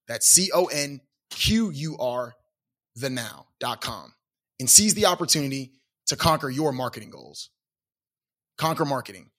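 upbeat promo read; host reading a sponsor ad, upbeat. Acted. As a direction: sell it like a radio spot. Reads sponsor ad.

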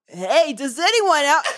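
slow mocking sing-song; mocking the phrasing. Ranting friend mocks the post, slow and sneering. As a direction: drag the question out with a laugh. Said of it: "Don't go".

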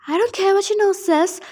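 a high snarl, half dog; growling dog voice. Acted. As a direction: snarl it like a dog-headed monster. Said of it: "snarled the half-human, half-dog voice".

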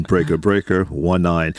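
chuckling through the words; laughing while repeating the call. Pretend.

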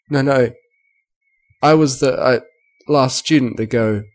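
a touch of sobbing, halting on the words; spoke in sobs. Acted. Frightened filly explaining to the guards, mildly tearful. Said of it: "Scootaloo spoke in sobs".

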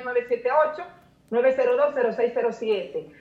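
number read digit by digit, paced; reading digits one by one. Real, not acted. Giving her phone number. (dictando dígitos uno por uno)

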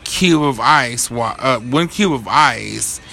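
"cube of ice" drawn out slowly, each word weighted; slow emphatic. Real, not acted. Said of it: "That's my pet peeve".

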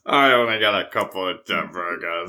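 low-pitched mock French accent; Steve Martin. Recalling Pink Panther, low bad French accent. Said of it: "Pink Panther with Steve Martin".

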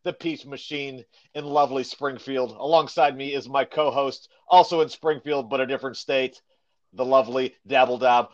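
practiced show-opening delivery; podcast intro. Acted. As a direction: open the show like an upbeat announcer. Podcast host reads show intro.

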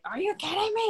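put-on high, incredulous snap at the child; mock exasperation. A mom after her son headbutts her, half-mock exasperation. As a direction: let the frustration spike. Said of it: "part of me wanted to be like".

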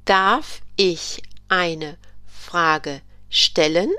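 very slow repeated question. Shown as a demonstration. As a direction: say it again slowly. German teacher repeats the question.

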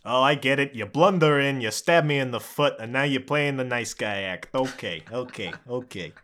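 grumble, then subside into wary okays; aggrieved guard dragon. Acted. Stabbed dragon accuses the party, grudgingly.

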